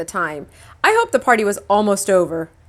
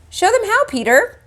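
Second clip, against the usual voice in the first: much higher, coaxing mother voice; 13 semitones higher, 3 dB louder than usual. A narrator's reading. Mother coaxing Peter to show the kids, high voice. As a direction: urge him on brightly.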